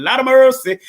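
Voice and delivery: high, loud Jamaican exclamation; a playful Jamaican cry for mercy; Jamaican accent. Retold or imitated. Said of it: "bring the Jamaican accent back again".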